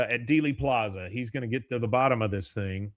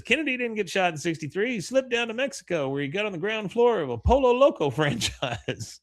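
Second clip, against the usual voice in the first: a much higher put-on voice, breaking into a laugh; third conspiracy guy; 9 semitones higher than usual. Third pamphlet guy tells Dale about Mexico, much higher goofy voice. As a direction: pitch the Mexico theory high and goofy.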